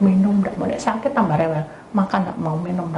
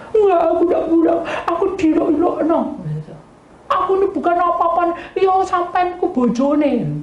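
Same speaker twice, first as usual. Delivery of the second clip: indignant maid; 10 semitones higher than usual. Retold or imitated. The maid protesting to the wife, high and indignant.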